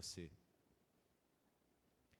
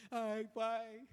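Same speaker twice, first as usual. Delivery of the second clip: high, louder gushing delight; excited child; 9 semitones higher, 4 dB louder, slower than usual. Acted. Children thank father in loud high delight. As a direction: gush with joy at the surprise.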